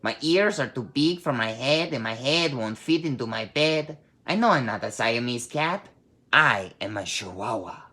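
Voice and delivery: put-on lightly done Spanish accent; a hint of a Spanish accent, playful. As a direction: kitten in his best Spanish accent. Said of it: "using his very best Spanish accent".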